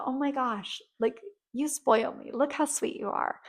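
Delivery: light, playful teasing praise; playful, young energy. Shown as a demonstration. To a generous friend, light playful teasing thanks. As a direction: tease them sweetly for spoiling you. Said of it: "in a playful, fun, young energy".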